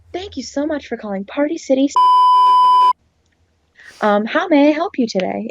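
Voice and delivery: sing-song scripted phone greeting; lightly put-on customer service robot. Employee demonstrating the phone greeting, robot voice. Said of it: "I would put on that voice".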